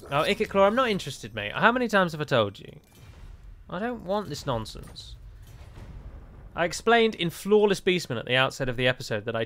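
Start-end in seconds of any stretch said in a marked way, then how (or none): 0.1-5.1 higher-pitched, put-upon telling-off; mock indignation, brushing off a pest; exasperated rebuff. Player tells Ikit Claw he's not interested, exasperated. Scolds game rival asking alliance.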